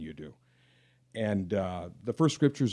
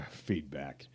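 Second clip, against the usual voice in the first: feedback said through a low laugh; 6 semitones lower, 5 dB quieter than usual. Real, not acted. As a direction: laugh it off while saying feedback.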